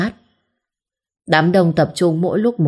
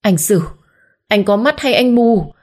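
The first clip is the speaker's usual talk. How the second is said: growling fury; 5 semitones higher than usual. Acted. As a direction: snarl at him in rage. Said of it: "gầm gừ". (Diệu tức điên gầm gừ với chồng)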